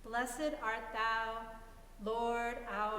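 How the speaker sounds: slow, careful start of a Hebrew-school prayer; lightly voiced child reciting a prayer; reciting a blessing. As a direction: recite it slowly like a child saying grace. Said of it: "Will you say the blessing?".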